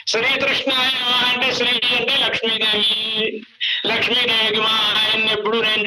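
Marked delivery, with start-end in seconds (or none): 0.1-1.2 "శ్రీకృష్ణాయ" with tru for kru; deliberate mispronunciation. Shown as a demonstration. Preacher explaining the altered name, saying "శ్రీకృష్ణాయ" as shri-trushnaya. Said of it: "అన్నా ఆయన పేరేనయ్యా".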